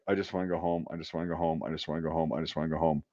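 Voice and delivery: low, tired repeated mumble of wanting home; weary murmur. Retold or imitated. Soldier in line muttering to himself, drained and soft. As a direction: sigh it out like you're worn out from months away.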